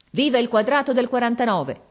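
loud, high toast shout; rousing shout. A narrator's reading. The father toasting his old regiment, rousing shout. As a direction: cry it out on your feet. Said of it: "gridò".

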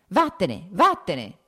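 ordine forte, gridato due volte. A narrator's reading. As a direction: caccialo via con due grida secche. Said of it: "gridò alzandosi dalla sedia". (grido di chi scaccia)

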